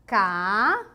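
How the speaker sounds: "Camada" as stretched "Ca", "ma", "da" with long pauses; syllable by syllable. Shown as a demonstration. Teacher separating a three-syllable word, widely spaced syllables. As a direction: split "Camada" into three loud beats. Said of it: "Vamos separar".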